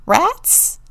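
puzzled, rising query; musing. A narrator's reading. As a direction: wonder aloud with mild doubt. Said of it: "mused Vern".

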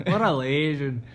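light mock Australian accent. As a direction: echo it like a jokey Australian. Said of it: "Is that an Australian?".

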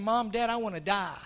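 low, soft retold plea, no drama; subdued retelling. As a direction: quote the child softly and low. First retelling of daughter's words.

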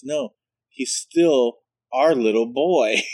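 slow, drawn-out insistence; lightly voiced flamboyant boyfriend. Boyfriend correcting the teller, lightly mimicked and slow. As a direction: insist gently, stretching every word. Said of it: "He says".

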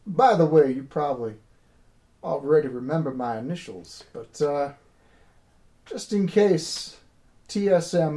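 lightly voiced drawling character; understated folksy drawl; slow drawl. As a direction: take your time, with pauses between phrases. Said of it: "I'm stuck on slow drawl".

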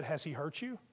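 soft, cutting concern; quiet pointed question. Retold or imitated. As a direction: quietly put her on the back foot. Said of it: "set her back on her heels".

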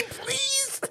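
1 mock pleading. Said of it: "You just gotta say".

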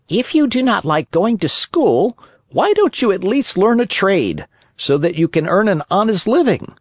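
high, lightly voiced patient cricket; same patient tone. Cricket calmly advising the puppet to learn a trade, patient high voice. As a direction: keep the same even tone. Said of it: "continued in the same tone".

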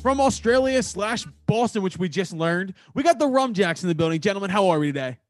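upbeat announcer welcome; show host intro. Acted. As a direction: bring on the guests like an MC.

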